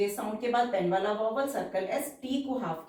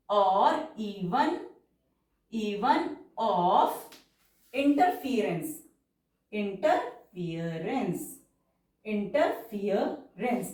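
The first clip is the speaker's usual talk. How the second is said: very slow, drawn-out dictation pace; stenography dictation, stretched syllables; much slower than usual. Shown as a demonstration. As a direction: read it out word by word for shorthand.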